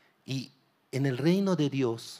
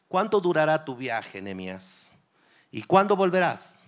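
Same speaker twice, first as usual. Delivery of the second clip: louder, raised royal question; king's question; 3 semitones higher, 5 dB louder than usual. Retold or imitated. King loudly questioning Nehemiah about his journey. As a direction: ask it like a king.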